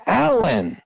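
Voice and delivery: high, urgent call uphill. Retold or imitated. Hunter retelling calling his partner again in panic, high urgent call. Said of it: "And then".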